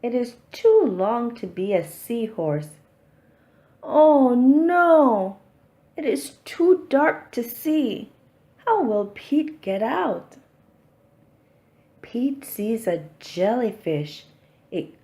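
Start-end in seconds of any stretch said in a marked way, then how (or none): 3.8-10.4 much louder and higher, a startled cry; alarmed cry. Acted. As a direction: sound suddenly scared in the dark. Pete trapped in dark cave.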